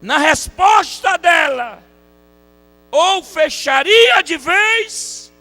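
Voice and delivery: high, shouted revivalist delivery; loud, soaring pulpit proclamation; full-force preaching. Acted. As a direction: drive each phrase home at the top of your voice.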